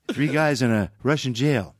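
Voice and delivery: understated presidential joke-teller; lightly voiced Reagan spinning a joke; Ronald Reagan. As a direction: tell it folksy, with measured pauses. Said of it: "He always told a joke".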